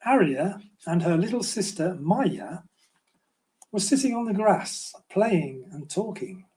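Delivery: put-on gentle storybook reading for children; story narration. A narrator's reading. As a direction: read it like a bedtime story to little ones. Author reads his children's book.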